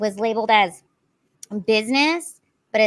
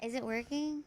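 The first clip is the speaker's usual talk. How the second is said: hollow echoing mic, far off; cave echo; 2 semitones higher, 15 dB quieter than usual. Real, not acted. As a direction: voice bouncing around a cave. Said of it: "we have a terrible echo".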